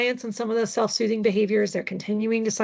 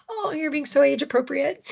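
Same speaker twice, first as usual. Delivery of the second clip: higher, amused mock praise; 6 semitones higher than usual. Parent joking to herself during a tantrum, amused mock praise. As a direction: tease the tantrum as if it were a compliment. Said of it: "try to laugh to myself ... and think".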